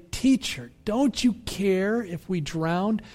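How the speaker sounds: a mild plea of frightened disciples; desperate cry. Acted. Disciples to Jesus in the storm, mock desperate plea. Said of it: "they cry out to him in that same voice".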